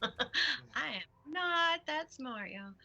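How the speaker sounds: laughing while talking. Real, not acted. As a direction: laugh through the words. Laughing at herself.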